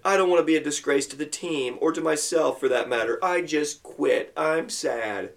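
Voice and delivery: mock mopey whine, slowing down; lightly played sulking boy; a touch of a sad quitter; mopey kid. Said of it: "here's what Randy said".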